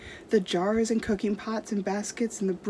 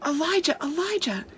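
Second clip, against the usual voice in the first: put-on boy calling his cousin; 7 semitones higher than usual. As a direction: shout a friend's name from outside. Cousin calls out.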